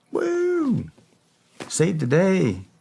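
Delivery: sarcastic high whoop, then saved the day; mock cheer. Mocking his own brush-off answer to her, sarcastic cheer. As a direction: cheer it ironically, like a fake victory. Mock celebration after saying "I'm good.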